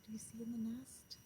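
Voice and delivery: hushed whisper to the class. Real, not acted. Teacher whispering to the children about the nest. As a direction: lean in and whisper it. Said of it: "teacher hushing to show nest".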